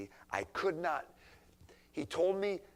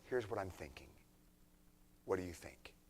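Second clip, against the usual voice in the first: respectful; 3 semitones lower, 5 dB quieter, faster than usual. Acted. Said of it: "with the right heart say".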